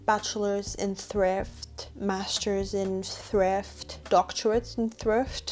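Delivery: mock grandeur. Mock-grand credentials list.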